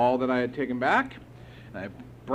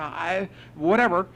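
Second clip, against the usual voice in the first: irritated; 5 semitones higher, 3 dB louder than usual. Retold or imitated. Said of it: "I just was irritated".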